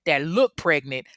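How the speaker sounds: emphatic, dismissive doctor imitation; mildly shady put-down; a bit of an asshole. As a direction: talk down to them, punching words. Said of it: "a little bit of a asshole about it".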